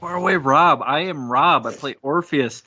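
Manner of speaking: ordinary talk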